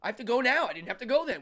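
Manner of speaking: high, insistent self-defense; defensive protest. Retold or imitated. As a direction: argue back, exasperated. Protesting back to scolding staff.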